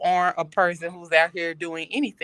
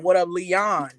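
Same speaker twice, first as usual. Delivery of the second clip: mimicked greeting in near-usual pitch; mimicked morning greeting; slower than usual. Teasing friend about her morning voice, mimicked greeting. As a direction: imitate the greeting given to the morning voice. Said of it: "you like".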